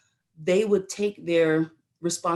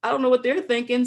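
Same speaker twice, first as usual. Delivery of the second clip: higher-pitched, quicker retelling of a protest; mild indignant refusal; 5 semitones higher, faster than usual. Retold or imitated. Young recruit reacting to orders for Germany, mildly indignant. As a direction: re-enact a young recruit balking, lightly.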